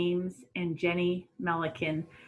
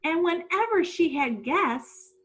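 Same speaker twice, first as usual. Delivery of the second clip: lively read-aloud storytelling voice; story narration; slower than usual. A narrator's reading. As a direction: read it like a storybook to young kids.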